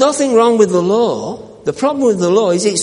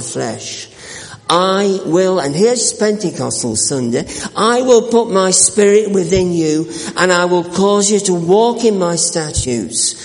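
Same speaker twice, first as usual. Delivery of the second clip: solemn scripture reading. Acted. Preacher reads Ezekiel to the congregation, solemn and measured. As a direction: read the prophecy to the congregation with gravity.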